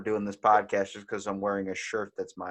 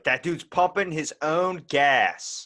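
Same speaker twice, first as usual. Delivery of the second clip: scandalized onlooker; 6 semitones higher, 5 dB louder, much slower than usual. Retold or imitated.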